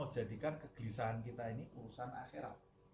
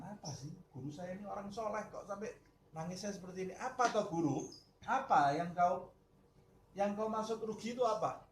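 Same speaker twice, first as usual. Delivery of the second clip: building, louder and higher demand; pressing student; 7 semitones higher, 4 dB louder than usual. Acted. The curious student pressing his teacher, rising higher and louder. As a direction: push harder for an answer.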